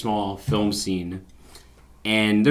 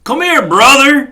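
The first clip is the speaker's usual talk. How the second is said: loud, high, drawn-out mock Southern call; hard-R Southern accent; 11 dB louder, slower than usual. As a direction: exaggerate the Southern hard R, loudly. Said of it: "it's a hard R".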